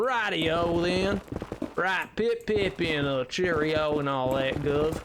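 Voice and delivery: slow Southern drawl on British slang; Britishisms in Southern accent. Pretend. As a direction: play British phrases through a Southern accent. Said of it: "colloquial Britishisms in, in, in a Southern accent".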